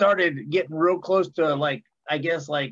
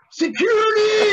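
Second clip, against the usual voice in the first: high-pitched mock scream for help; imitating a singer; 6 dB louder than usual. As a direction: holler it out long and loud, way up high. Retold yell of a singer calling security.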